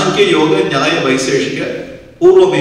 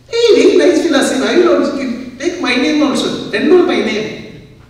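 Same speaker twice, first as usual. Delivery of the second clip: much higher, fast and excited, then slowing; a gullible man eagerly signing up; eager worldly listener; 10 semitones higher than usual. Retold or imitated. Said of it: "the worldly people".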